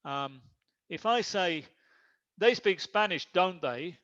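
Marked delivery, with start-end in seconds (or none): 2.4-4.0 "don't they" falling, just confirming; falling intonation. Shown as a demonstration. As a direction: let "don't they" drop at the end, not really asking. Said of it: "It's falling intonation".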